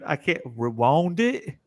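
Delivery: slow, halting try at a Southern "rewound"; failed Southern accent. Retold or imitated. Admitting he can't copy his friend, slow mock Southern. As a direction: stumble through "rewound" like a bad Southern imitation. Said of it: "I can't even say it like you did".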